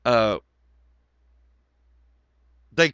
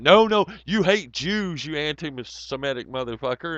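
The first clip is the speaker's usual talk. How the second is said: high, hammed-up whiny mock voice; mocking sock accounts; 5 semitones higher, 5 dB louder than usual. Mocking the Israeli sock accounts in a high whiny voice. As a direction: parody the trolls' outrage, pitched up. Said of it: "the Israeli socks are going".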